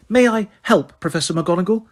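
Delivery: high, syrupy mock-polite offer; poisonously sweet. Umbridge offering help to McGonagall, poisonously sweet. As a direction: sweeten it with venom. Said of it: "in her most poisonously sweet voice".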